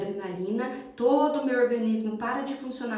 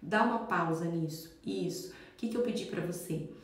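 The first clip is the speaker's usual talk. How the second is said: put-on soft, low, calm words to a child; calm gentle request; 4 semitones lower, 4 dB quieter than usual. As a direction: speak gently face to face with the kid. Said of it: "olhe no olho dela". (mãe falando baixinho e calma com o filho)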